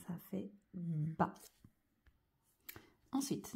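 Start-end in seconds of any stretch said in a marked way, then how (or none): 0.1-1.3 a slow hushed Ça fait bas; whispered. Shown as a demonstration. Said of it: "teacher repeats syllable softly".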